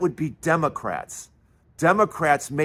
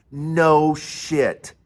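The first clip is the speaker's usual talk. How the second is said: ordinary talk, nothing marked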